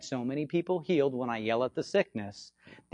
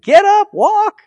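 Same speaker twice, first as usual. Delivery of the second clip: loud, much higher command to stand and walk; commanding shout; 15 dB louder, much slower than usual. Retold or imitated. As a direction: bark it out like a healing command. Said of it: "And I said".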